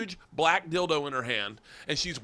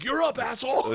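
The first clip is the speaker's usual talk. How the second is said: high mock yell; raucous jeer, imitated; imitated crowd goading; 9 semitones higher, 4 dB louder than usual. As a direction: goad a friend up onto the stage. Crowd goading him onstage, retold.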